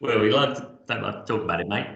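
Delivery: a light hint of an Australian accent; playful mock Aussie, barely voiced. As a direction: toss off a matey Australian line. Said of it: "That was my Australian accent there".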